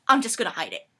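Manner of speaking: offhand but loud reassurance; confident assurance. Acted. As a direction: brush the worry aside. Friend's casual plan.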